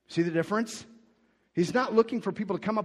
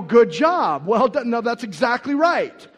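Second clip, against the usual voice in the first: excited praise; 7 semitones higher, 12 dB louder than usual. Retold or imitated. Paul praising, loud with laugh.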